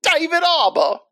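high, hammed-up Canadian accent on David Harbour; mock Canadian accent. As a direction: lay the Canadian accent on thick. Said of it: "in a Canadian accent".

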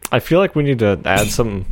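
talking while banging the table; thumping the table mid-sentence; banging the desk. Real, not acted. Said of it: "Quit hitting the table".

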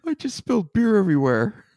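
Jon impression. Shown as a demonstration. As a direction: parody a clumsy friend in a high voice. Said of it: "I'm gonna try".

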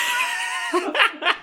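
squealing laugh; high shrieking laugh. Real, not acted. Laughs out loud.

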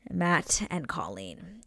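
"Matt and Colleen" very slow and soft, each name drawn out; slow announcement. Shown as a demonstration. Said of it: "and it is Matt and Colleen".

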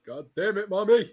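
high screaming tantrum; furious kid yell. Pretend. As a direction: scream at mommy like a bratty child. Kid cursing at mom.

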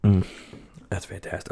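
just swallowed a sip of beer; savoring a mouthful of drink; while sipping a drink. Real, not acted. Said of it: "let me take a sip of this here".

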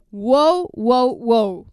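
loud amazed wow. Real, not acted. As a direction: gasp out each wow. Amazed by trailer.

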